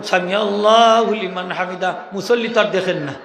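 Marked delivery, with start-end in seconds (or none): 0.0-1.9 slow drawn-out recitation. Shown as a demonstration. Imam shows when সামি starts, slowly drawn out. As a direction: stretch সামি out slowly as the head rises. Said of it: "আস্তা মাথা তুলিয়া তখন".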